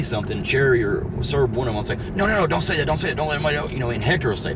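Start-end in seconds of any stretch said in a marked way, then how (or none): 2.1-3.7 high, mocking whiny voice; mocking imitation. Mocking co-hosts telling each other to hush, high whiny voice. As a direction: parody a panicky co-host hushing the others.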